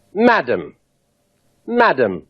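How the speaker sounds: plain English "madam", falling tune on "madam". Shown as a demonstration. Englishman addressing a lady, plain "madam" with a falling tune. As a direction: say "madam" the English way, dropping at the end. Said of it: "An Englishman addressing a lady would say".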